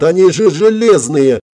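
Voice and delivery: high, drawn-out incredulous cry; acted astonished yell. A narrator's reading. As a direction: protest loudly in disbelief. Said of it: "заорал Влад".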